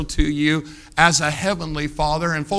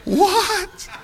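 high-pitched laugh with a squeaky "What? What?"; high laughing disbelief; 4 dB quieter than usual. Real, not acted. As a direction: crack up in disbelief. Preacher laughs at punchline.

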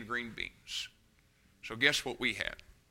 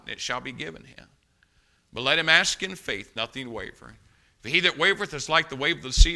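measured reading of a Bible passage; scripture reading; 4 dB louder than usual. Real, not acted. Pastor reading James to the congregation, measured. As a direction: read the verses with weight. Reads James chapter one.

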